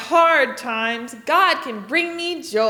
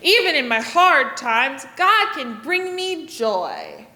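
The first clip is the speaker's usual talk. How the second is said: "God can bring me joy" slower with a big smile. Shown as a demonstration. Teacher showing kids the happy, smiling half. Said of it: "And smile really big".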